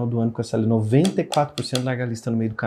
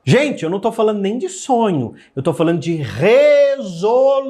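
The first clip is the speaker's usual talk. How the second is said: emphatic; 9 semitones higher, 6 dB louder than usual. Real, not acted. Emphatic correction to viewers.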